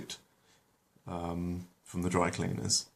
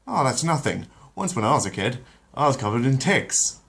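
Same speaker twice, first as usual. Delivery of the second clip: higher, smug one-upping; boastful Peter; 5 semitones higher, 4 dB louder than usual. Acted. Peter one-ups his baby son, lightly voiced smug boast. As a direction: brag that you had it worse.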